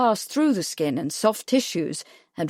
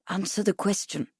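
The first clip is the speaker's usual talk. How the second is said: softer, gentle instruction; not unkindly; 5 dB quieter than usual. A narrator's reading. Kipling prompting the awed boy, not unkindly. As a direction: prompt gently but firmly. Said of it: "not unkindly".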